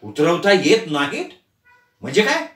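rising, shocked question; shocked outcry. Acted. Family shouts together in shock, rising question. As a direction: cry out in disbelief. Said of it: "तिघेही एकदम ओरडले".

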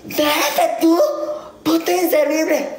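imitating a bossy friend's jab; mocking quote. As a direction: throw the insult back mockingly. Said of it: "me dijo".

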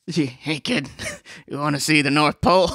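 low, lightly voiced creepy Santa. Santa propositioning a kid, low mock-creepy voice.

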